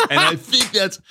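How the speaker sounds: squeaky-high send-up of oneself; exaggerated high pitch, amused; mock high voice. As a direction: restart the point in a silly, very high voice. Sends up own podcast voice.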